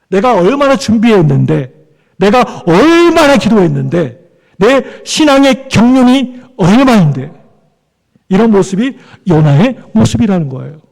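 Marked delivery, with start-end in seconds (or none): 0.1-7.3 indignant self-justification. Acted. Voices a self-righteous believer's protest.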